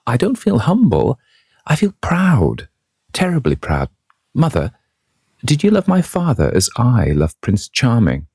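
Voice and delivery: put-on high, bright-eyed young woman in love; a girl gushing about her sweetheart, pitched high; rapturous young girl. A narrator's reading. Sybil voiced in the story.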